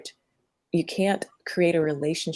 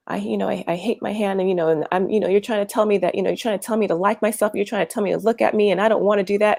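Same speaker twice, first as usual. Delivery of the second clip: gremlin voice; 4 semitones higher, 5 dB louder, faster than usual. Retold or imitated. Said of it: "I'm gonna start with the hand".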